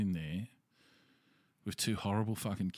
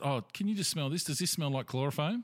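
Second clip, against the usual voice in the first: creepy man; 5 semitones higher than usual. Retold or imitated. Creepy man voiced in story.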